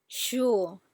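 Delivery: SURE dipping before it lifts; "sure" as a third tone, down then up; bouncing third tone. Shown as a demonstration. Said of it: "all the four tones".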